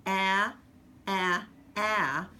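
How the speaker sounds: ah said clearly and held, a short open vowel; dictation sound. Shown as a demonstration. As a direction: sound out ah for the children to write. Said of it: "So this is".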